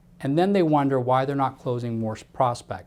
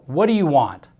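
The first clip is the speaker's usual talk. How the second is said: rude phone answer; 5 dB louder than usual. Shown as a demonstration. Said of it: "answered the phone call in the following statement".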